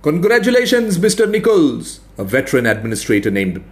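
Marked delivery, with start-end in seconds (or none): 0.0-2.0 high, dry sarcastic praise; mock congratulations. A narrator's reading. Old administrator mocking the expert's map, sarcastic. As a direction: congratulate him with heavy irony.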